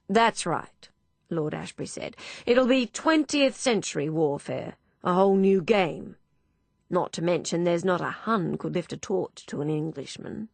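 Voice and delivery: jovial patriotic bluster; lightly voiced old lord.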